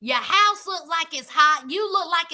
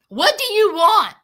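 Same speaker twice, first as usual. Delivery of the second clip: louder, higher mock irritated question; retold throaty demand; 4 semitones higher, 6 dB louder than usual. J K to woman at his door, mock irritated. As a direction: throw it out as his rude greeting. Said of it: "Then he says out his throat".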